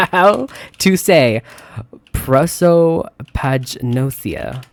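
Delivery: slow, drawn-out syllables on prosopagnosia; sounding it out. Real, not acted. Sounding out a hard word slowly.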